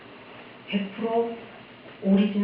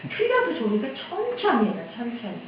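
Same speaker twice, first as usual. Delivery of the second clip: pleading request; 2 semitones higher than usual. Retold or imitated. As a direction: plead in a raised pitch, then ease off. Congregation pleads with pastor.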